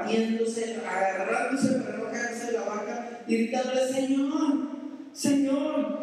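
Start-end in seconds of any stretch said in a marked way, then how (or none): 3.9-6.0 crying out. Acted. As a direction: call out to the Lord from the sinking boat.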